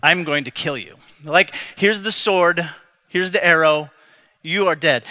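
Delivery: mean every word of it; deadly serious threat. Shown as a demonstration. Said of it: "No, like".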